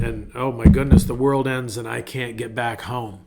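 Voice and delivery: mildly anxious, stumbling what-ifs; fretful what-if. Shown as a demonstration. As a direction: hesitate and fret over what could go wrong. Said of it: "Same thing can be done with the two words".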